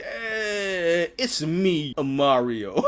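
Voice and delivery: mock a half-hearted voice-acting take; no-effort Mario. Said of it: "you didn't try at all".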